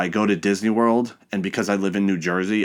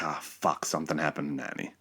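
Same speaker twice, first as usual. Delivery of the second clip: dreading mutter; 4 semitones lower, 10 dB quieter than usual. Retold or imitated. Dreading news about his grandmother.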